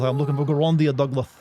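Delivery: bellowing Professor Dink, over the top. Acted. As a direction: boom it out like an eccentric old professor. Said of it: "my Professor Dink voice".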